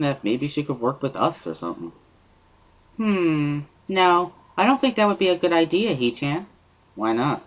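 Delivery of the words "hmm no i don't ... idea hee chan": put-on bubbly cheerful girl. Misha cheering that the group is together again, high bubbly girl voice. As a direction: squeal it out like an overexcited classmate.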